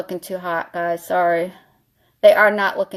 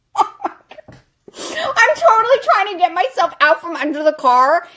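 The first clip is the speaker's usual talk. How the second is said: laughing struggle; 7 semitones higher than usual. Retold or imitated. Stuck under the car, high laughing struggle.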